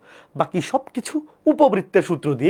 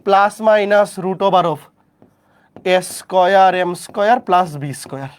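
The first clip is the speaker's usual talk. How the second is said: slow dictation; slower than usual. Shown as a demonstration. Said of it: "dictating formula slowly".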